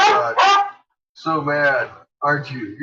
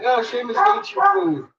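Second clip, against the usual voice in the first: high, squeaky dog voice; voicing the dog; 13 semitones higher than usual. Owner voicing her dog scolding Seamus, high. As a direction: chirp it high like a bossy little dog. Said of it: "It's like".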